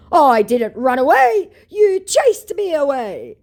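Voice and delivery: high, loud, slow indignant protest; mock indignant scammer. The scammer insisting she chased him away, high and indignant. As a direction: declare it like wounded pride. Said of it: "declares my scammer".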